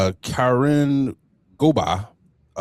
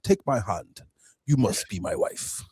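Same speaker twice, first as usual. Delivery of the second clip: lightly put-on Ugandan accent; mock Ugandan accent; 4 dB quieter than usual. Retelling how the general proposed, mock Ugandan accent. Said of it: "I don't know why I'm using that accent".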